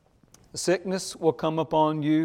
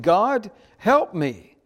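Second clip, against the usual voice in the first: pleading prayer; 5 semitones higher, 6 dB louder, slower than usual. Acted. Preacher depicts desperate prayer.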